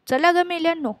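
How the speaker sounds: high, loud shriek to chase off the sparrows; shooing shriek. A narrator's reading. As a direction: shoo the birds away with a sharp yell. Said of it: "पटवर्धनबाई पुन्हा किंचाळल्या".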